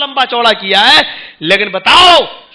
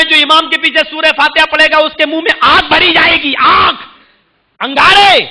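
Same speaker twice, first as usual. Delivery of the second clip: fiery warning; 4 semitones higher than usual. Acted. Quoting imam's warning of fire.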